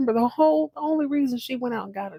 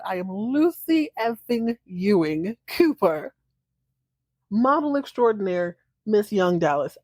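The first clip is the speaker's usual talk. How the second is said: mock grand. Voicing Lucy's proud self-introduction.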